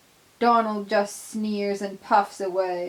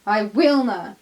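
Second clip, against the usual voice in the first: defiant refusal; 7 dB louder than usual. Acted. Donald refuses.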